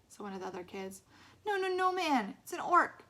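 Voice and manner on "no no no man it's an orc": laughing. A narrator's reading. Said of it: "laughed Eddie".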